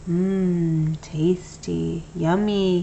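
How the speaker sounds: soft, dreamy mumble; mumbled. A narrator's reading. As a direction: murmur half asleep. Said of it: "he mumbled".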